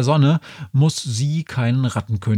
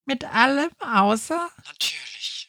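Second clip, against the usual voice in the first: high, thin tiny voice; thin little voice; 11 semitones higher, 5 dB quieter than usual. Acted. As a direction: squeak it like a small creature. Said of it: "ertönt da ein dünnes Stimmchen von draußen".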